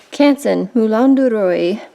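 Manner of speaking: paper name in a showy French accent; fancy French accent. Shown as a demonstration. Naming French paper to feel better, fancy French accent. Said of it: "say that with a fancy accent".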